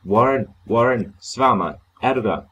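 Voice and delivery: calling loudly into the phone; shouting. Acted. Carter shouts for Warren into the telephone. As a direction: yell his name desperately. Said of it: "kaldte, råbte og skreg jeg".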